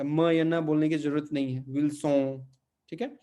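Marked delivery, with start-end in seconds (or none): 1.7-2.5 विल्सों ending in a nasal ओं with no n sound. Shown as a demonstration. Teacher models the Portuguese reading of Wilson. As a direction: say विल्सों through the nose, dropping the न. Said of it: "एम या एन का उच्चारण बाहर नहीं आता".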